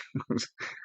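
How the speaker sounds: short, soft nervous chuckle; nervous laugh. Real, not acted. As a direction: let out a brief, uneasy laugh under your breath. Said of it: "it's like a nervous laugh".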